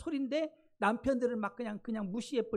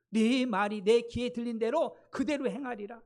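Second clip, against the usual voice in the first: louder, emphatic quoted decree; God's firm pronouncement; 6 dB louder than usual. Retold or imitated. God answering the grumbling Israelites in the wilderness, loud solemn pronouncement. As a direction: voice God's verdict with force.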